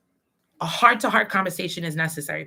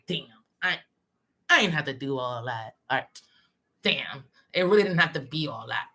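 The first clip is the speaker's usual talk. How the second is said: lower guilty muttering; 6 semitones lower than usual. Retold or imitated. Voicing inner guilty thoughts.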